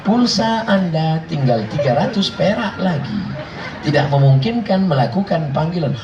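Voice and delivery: lightly imitated operator recording; automated phone voice. Imitating the phone machine warning of low credit, recorded-operator manner. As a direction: deliver it like a measured service announcement. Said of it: "suara mesin aja dia tak tahan".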